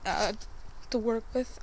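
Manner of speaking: shivering from the cold; cold and shivering while talking. Real, not acted. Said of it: "I'm sorry, I'm shivering".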